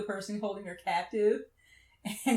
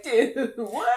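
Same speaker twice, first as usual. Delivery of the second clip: laughing mock shock; 3 semitones higher, 10 dB louder than usual. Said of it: "his family is like".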